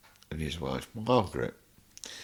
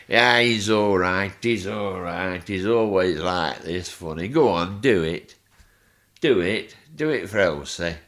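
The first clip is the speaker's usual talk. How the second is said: louder, coaxing push to perform; mock insistent cheerleading; egging him on; 7 dB louder than usual. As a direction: urge him on in front of the neighbour. The speaker urging him to perform.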